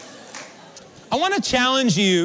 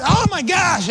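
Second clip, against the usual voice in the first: loud, high-pitched exclamation of alarm; retold shock; 10 semitones higher, 5 dB louder, slower than usual. Preacher reliving the bidet soaking him, shocked outcry. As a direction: cry out as if suddenly soaked. Acting shock at water jet.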